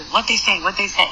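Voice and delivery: lightly voiced impatient mom asking for news; eager mom. Mom asking her son what they said, eagerly. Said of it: "his mom's all eager".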